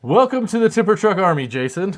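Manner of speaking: high, loud welcome chant; excited welcome. Real, not acted. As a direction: hype up the new member. Welcoming a new member.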